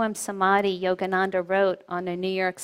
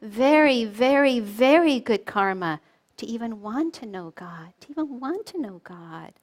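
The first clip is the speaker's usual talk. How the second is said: stern Yogananda; 3 dB louder than usual. Retold or imitated. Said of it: "got really stern with him".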